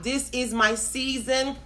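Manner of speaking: slow, spaced-out proclamation; slow declaration. Real, not acted. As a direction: dictate it slowly for people to type. Dictating a declaration to type.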